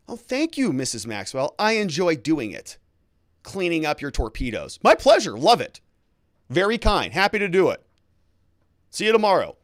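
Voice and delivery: high, loud and gushing over-polite maid; fawning servant. Shown as a demonstration. Housekeeper thanking Missus Maxwell for a compliment, gushing and high. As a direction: gush like a too-eager housekeeper. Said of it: "you say".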